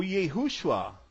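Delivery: YEHUSHUA as yay-HOO-shua; slow English-style Yehushua, yay-HOO-shu-AH; American misreading. Shown as a demonstration. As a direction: say Yehushua slowly, ending in open 'ah'. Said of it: "ele vai ler".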